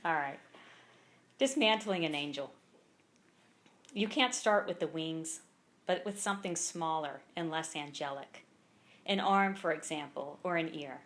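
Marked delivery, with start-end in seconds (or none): 1.4-11.0 measured poem recital with pauses between lines; poem read aloud at a live reading; poetry reading. Acted. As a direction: read each line deliberately, letting it land. Reads own poem aloud.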